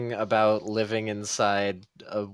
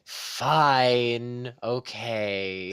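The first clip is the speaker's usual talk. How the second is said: grudging agreement; 2 semitones higher, much slower than usual. Acted. Character grudgingly giving in.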